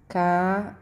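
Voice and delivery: "Caixa" drawn out as ca... i... xa; ca, i, xa, with gaps between; sound by sound. Shown as a demonstration. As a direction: split "Caixa" into three slow pieces. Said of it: "Quando eu separo essa sílaba".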